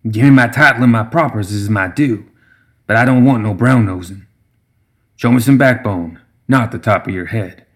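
lightly voiced scolding brewmaster; a hint of a cantankerous elder; stern old gremlin. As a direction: tell the youngster to stop grovelling. Brewmaster scolds Summer for grovelling.

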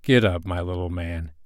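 mild, fatherly kindness; kind voice. A narrator's reading. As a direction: speak kindly to a small boy. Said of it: "he said in a kind voice".

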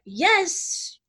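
high, drawn-out playful cheer; playful guides. Retold or imitated. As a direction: voice delighted spirit guides egging you on. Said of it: "they're playful".

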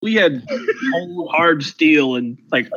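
lightly voiced grumpy old-timer; old prospector. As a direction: grumble like a crusty old-timer. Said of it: "Back in my day".

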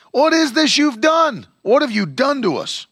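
panicked demand from scared sailors; terrified sailors rounding on Jonah; frightened sailors. Acted.

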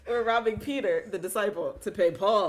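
can't stop laughing while explaining; laughing as she sets the record straight. Real, not acted. Laughing explaining the biblical reference.

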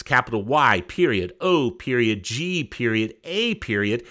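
spelling it out letter by letter; each letter and period said separately, dictation style; dictating. Shown as a demonstration. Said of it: "That's all caps".

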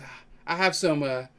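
put-on slipping back into a mild Southern accent. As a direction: shopkeeper offers oil in a faint Southern accent. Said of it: "Why am I going the accent?".

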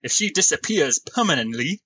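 rough put-on English smallfolk accent; attempted English accent. Game master warns the party as Uncas, rough English accent. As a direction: persist with a shaky English accent. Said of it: "continue trying to do the accent".

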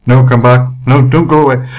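loud mock plea to stay; mock pleading. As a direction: call them back in fake desperation.

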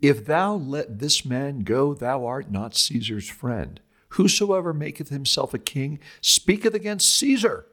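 crying out. Acted. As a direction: cry out a warning, pitched well up. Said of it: "the Jews cried out".

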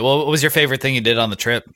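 ordinary delivery

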